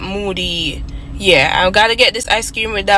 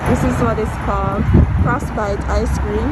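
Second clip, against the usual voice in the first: muffled behind a face mask; through a face mask; 2 semitones higher than usual. Real, not acted. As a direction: talk through a cloth mask. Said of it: "it's the mask".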